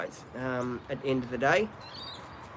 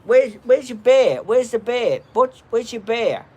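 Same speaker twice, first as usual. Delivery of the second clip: loud, high, eager voice for the dog; excited dog talk; 8 semitones higher, 8 dB louder than usual. Real, not acted. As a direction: get the dog excited about its toy. Excitedly asking dog for toy.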